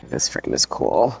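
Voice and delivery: breathless excitement. Real, not acted. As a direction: gasp it out thrilled. Gasps at a frame.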